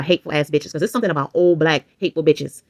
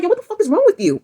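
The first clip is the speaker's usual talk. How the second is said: very high shouted retort; retold furious yell; 14 semitones higher than usual. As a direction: shriek it at him as he grabs you. Yelling while he pulls her.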